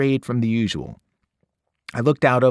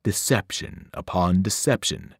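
musing monster; 4 semitones lower than usual. Acted. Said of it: "the thing in the pit mused aloud".

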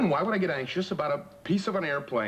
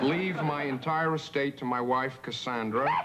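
solemn will reading. Shown as a demonstration. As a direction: read it like a legal document. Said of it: "how does this sound".

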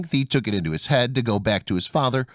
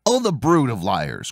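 angry cry; slower than usual. Acted. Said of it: "cried the tailor".

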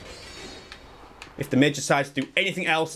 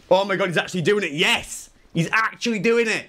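high, hammed-up amazement; mock-excited fan voice; imitating excited chat; 6 semitones higher than usual. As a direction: mimic thrilled viewers, pitch climbing. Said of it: "Everyone in chat is gonna be like".

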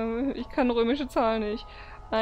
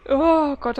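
sudden startled gasp of words; 3 semitones higher, 8 dB louder than usual. Real, not acted. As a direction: jump with fright. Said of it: "hab ich mich gerade erschrocken".

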